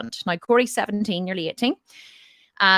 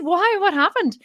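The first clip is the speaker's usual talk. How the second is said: high, louder startled questions; retold surprise; 11 semitones higher, 5 dB louder, slower than usual. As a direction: ask in concern, pitch leaping up. Retold surprise at bad result.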